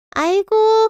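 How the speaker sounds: sharp high aigo of disgust; mother-in-law scoffing loudly at her son; exasperated cry. Acted.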